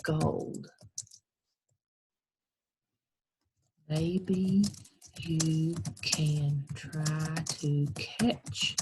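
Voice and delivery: slow Irish lilt, "me pot of gold"; a lightly voiced Irish leprechaun teasing; Irish accent. Shown as a demonstration. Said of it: "the way they talk in Ireland, he would say".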